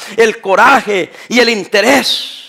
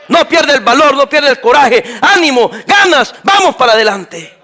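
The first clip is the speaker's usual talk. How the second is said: rousing shout; 4 semitones higher, 4 dB louder than usual. Real, not acted. Pastor urging his congregation not to give up, shouting. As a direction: call out loud to lift the crowd.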